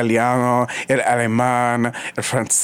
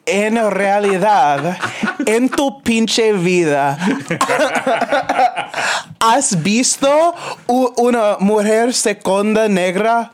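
milk every word like a diva; sassy diva outrage; 9 semitones higher, slower than usual. Acted. Mock outrage about Cher.

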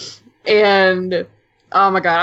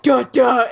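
sung-out dramatic "duh, duh"; imitated music sting; 3 semitones higher than usual. Guest mimicking the episode's music cue, dramatic sting. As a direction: mimic the score's big moment. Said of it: "And, like, the music".

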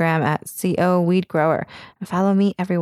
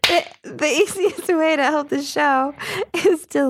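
slower, careful second take; careful retake; 7 semitones higher, slower than usual. Shown as a demonstration. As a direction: read it again slowly and carefully. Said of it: "Take two".

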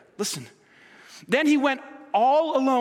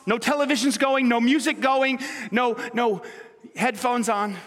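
building emphasis; 3 semitones higher than usual. Real, not acted. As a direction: push each item harder. Preacher listing distractions, building.

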